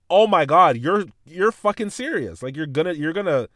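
can't believe she's actually doing it; disbelief. Retold or imitated. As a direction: kid stunned that his teacher will call his mom. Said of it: "And I'm like".

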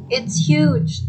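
high, loud exclamation; excited farmer. A narrator's reading. Farmer spots a turnip with very big leaves, excited. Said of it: "said the farmer".

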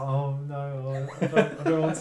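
laughing refusal. Retold or imitated.

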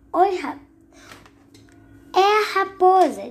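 high, piping little mouse; squeaky mouse voice. Acted. Little mouse announces the fox, high and squeaky.

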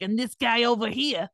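lightly put-on Syracuse accent, mock annoyed; angry Syracuse accent. Shown as a demonstration. Host showing how Syracuse people sound when mad, mock-angry Syracuse accent. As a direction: do a ticked-off Syracuse local. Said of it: "if you get pissed off".

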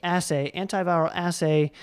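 "assay" now starting like "ass"; adopted pronunciation. Shown as a demonstration. Host trying out the doctor's correction, adopted pronunciation. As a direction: say "assay" as ASS-ay both times. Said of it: "Think ass, assay".

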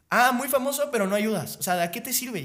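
high, loud mock reproach; imitated indignant woman. Agitated señora scolding a famous man, high and reproachful. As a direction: shame him as a worked-up señora would. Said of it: "una señora así súper a-, alterada".

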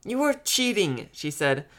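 put-on slow, high-pitched childish accusation; accusing little sister. A narrator's reading. Little sister accuses brother over Hangman, indignant. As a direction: draw out the charge, pitched high.

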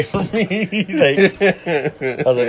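high laughing burst; cracking up. Real, not acted. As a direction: laugh before going on. Laughing at the story.

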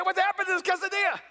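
mock dismay. Shocked by tiny Mexican quesadilla.

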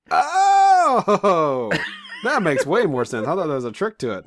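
high laughing oh of discovery; laughing realization. Retold or imitated. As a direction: laugh at your own mistake. Realizing the chopstick trick.

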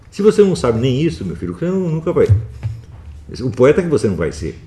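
voz alta e bem mais aguda, repreendendo; bronca exasperada. Real, not acted. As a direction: descarte as chances do aluno com veemência. Repreende quem não conta sílabas. (exasperado, dando bronca)

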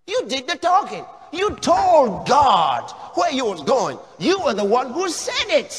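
preacher scolding the church; pointed rebuke. Real, not acted.

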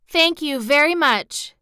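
put-on high, slow little-girl thanks; grateful. A narrator's reading. Dorothy thanking townspeople for food, grateful. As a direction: draw out the thanks sweetly. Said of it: "said Dorothy gratefully".

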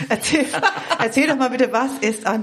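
talking through a real laugh. Real, not acted. Host asks guest to explain after her joke, laughing. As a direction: laugh while asking, restarting the word.

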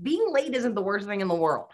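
ordinary talk, nothing marked

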